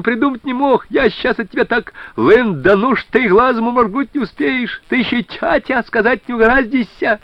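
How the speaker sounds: high, excited and gleeful; joyful shout. A narrator's reading. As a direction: keep the happy yelling going. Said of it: "Радостно заорал Суворов". (радостно, взахлёб)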